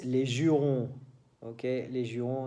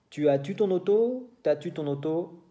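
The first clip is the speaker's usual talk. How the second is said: Quebec question; 4 semitones higher than usual. Shown as a demonstration. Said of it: "En Québec".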